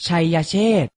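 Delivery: ชัยเชษฐ์ said carefully as chai-ya-chet; careful teaching read of ชัยเชษฐ์; pronunciation model. Shown as a demonstration. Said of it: "อ่านว่า".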